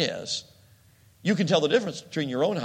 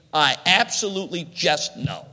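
calm certainty; 4 dB louder than usual. Acted. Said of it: "my answer to that would be".

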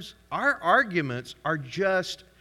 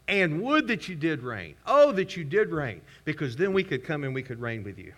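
sarcastic wish. Retold or imitated. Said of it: "Y'all hear the sarcasm".

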